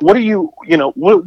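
a flustered, high-pitched challenge; indignant demand. Retold or imitated. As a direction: sputter at him in disbelief. Confronting the interrupting man.

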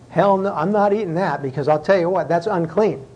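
acted flat-out refusal. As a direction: act out Peter digging his heels in. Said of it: "his response all three times is".

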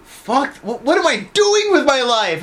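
mock epiphany laughing. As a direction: ham up a sudden life crisis through laughter. Mock self-realization quote.

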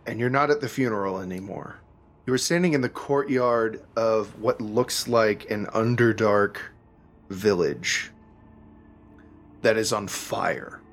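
measured narration with suspenseful pauses; game master's scene-setting. A narrator's reading. Game master describing the burning Underdark village, measured and suspenseful. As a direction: unfold the scene piece by piece.

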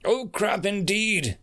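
high, slow, ominous echo; stately, drawn-out reaper voice; imposing cloaked reaper. A narrator's reading. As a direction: echo it with grand menace. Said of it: "said the seven-foot-tall cloaked figure".

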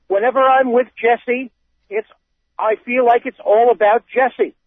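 put-on reading a quote in a light Boston accent; hint of a wicked Boston accent. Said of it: "break out my wicked Boston accent".

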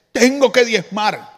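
slow, dragged-out imitation of a grudging giver; imitating reluctant compliance, very slowly; mock reluctance. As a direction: drag the words out as if burdened. Mimics people resenting the tithe.

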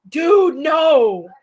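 mock protest. Friend quoting a stoner movie, loud mock protest. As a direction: blurt it out loud like a buddy refusing.

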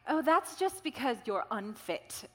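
imitated New Zealand accent, drawn out; thick New Zealand accent. Runner friend bluntly diagnosing her, in an imitated New Zealand accent. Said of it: "thick New Zealand accent".

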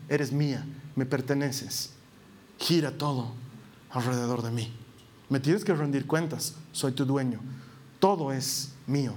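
low, menacing possessive murmur; a low, possessive voice claiming her; possessive inner voice. Retold or imitated. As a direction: speak as the owner, quiet and low. Voicing the selfish heart.

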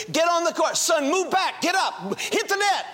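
sharp, high calls across the tennis court; anxious father yelling tennis directions; retold shouted instructions. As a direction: bark orders at your son on the court. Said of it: "I started shouting to Steve instructions".

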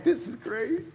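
lightly mimicked high-pitched eagerness; excited. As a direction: say it high, like your hopeful younger self. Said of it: "I actually was excited".

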